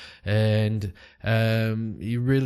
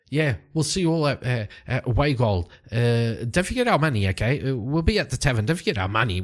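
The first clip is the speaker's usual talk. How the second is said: eager reminder; 3 semitones higher, faster than usual. Acted. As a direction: chase him with the reminder. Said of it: "turns to him and goes".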